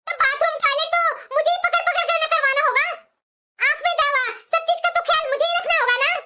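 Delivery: touch of aggrieved anger; mildly angry. Acted. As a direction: protest indignantly to your mother. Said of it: "इतना गुस्सा मत कर".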